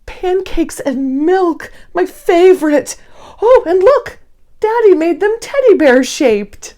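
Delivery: put-on excited little kid at breakfast; bright child voice. Child calling parents to breakfast, excited. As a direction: chirp it like an eager small child. Child narrator voicing scene.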